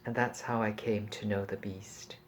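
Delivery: measured literary reading voice; story narration. A narrator's reading. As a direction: read it like an audiobook, unhurried. Reads novel passage aloud.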